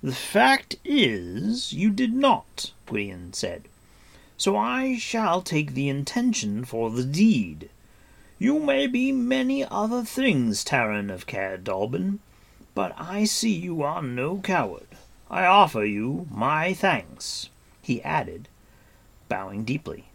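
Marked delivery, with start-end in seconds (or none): 0.0-2.7 higher, louder, sonorous character voice; Gwydion, grave warrior. A narrator's reading. Gwydion answering Taran about the Hunter, grave. 4.4-17.5 higher, louder, sonorous character voice; Gwydion, grave warrior. A narrator's reading. Gwydion answering Taran about the Hunter, grave.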